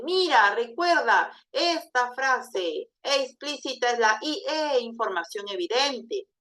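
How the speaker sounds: teacherly emphasis, "Mira" leaping up and falling; emphatic intonation. Shown as a demonstration. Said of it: "Esa entonación ayuda también".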